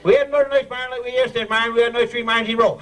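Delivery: fast Newfoundland patter with "marn" in one syllable; quick tongue-twister demo. Shown as a demonstration. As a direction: rattle it off fast and run together. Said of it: "Get that?".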